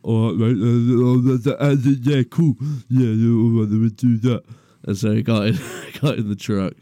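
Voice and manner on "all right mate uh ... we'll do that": dopey driver voice. Retold or imitated. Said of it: "And he's like".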